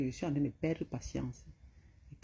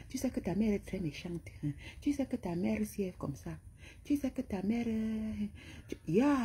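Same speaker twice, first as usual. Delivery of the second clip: moquerie aiguë; 5 semitones higher than usual. Retold or imitated. Imite la femme répétant ta mère.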